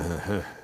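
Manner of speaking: short, soft chuckle under the breath; imitated stoner chuckle. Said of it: "he'd start going".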